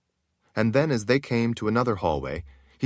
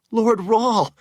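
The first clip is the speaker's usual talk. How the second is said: high, loud greeting; thrilled servant greeting Lord Rahl; excited call; 13 semitones higher, 6 dB louder than usual. Acted. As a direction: call his name eagerly. Shale races up calling.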